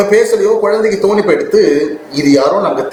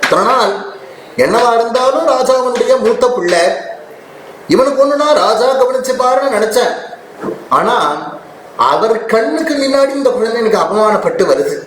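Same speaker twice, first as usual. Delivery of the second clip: grieving mother; 5 semitones higher than usual. Acted. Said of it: "அவளுக்கு தைரியம் போயிடுத்து".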